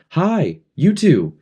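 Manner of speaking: high, loud call. A narrator's reading. Ralph calling the twins from afar, high and loud. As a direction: shout across to the twins.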